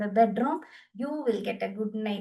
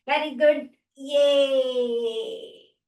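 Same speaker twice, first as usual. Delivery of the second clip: loud, rising cheer of praise; self-praise cheer; 2 semitones higher, 4 dB louder, much slower than usual. Shown as a demonstration. Teacher showing the class how to praise themselves. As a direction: cheer yourself on.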